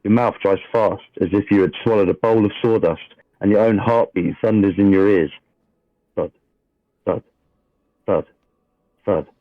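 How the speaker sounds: steady dramatic scene-setting read; game master narration. A narrator's reading. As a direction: read the opening like a storyteller at the table.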